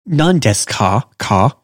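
"Non-desu ka" with a light, softened k; light, flat "ka". Shown as a demonstration. Teacher showing non-native speakers the right sound, light "ka". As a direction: keep "ka" light, without over-enunciating it. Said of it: "It's gonna go up".

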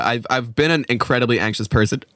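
burping through the words; talking through burps. Real, not acted. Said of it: "I'm like John Mulaney talking through burps".

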